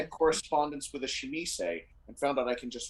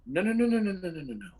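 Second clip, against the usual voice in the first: snooty Toreador voice; 7 semitones higher, faster than usual. Acted.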